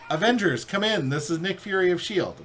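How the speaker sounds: a hint of Nick Fury hailing the team; Nick Fury call. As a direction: announce it like a commander on the radio. Reading Nick Fury's radio call.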